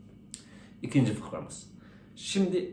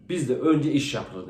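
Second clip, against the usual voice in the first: slow, measured German voice; German man; 3 dB louder, much slower than usual. Acted. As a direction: lay down the rule slowly, like a strict German. German in joke states his rule.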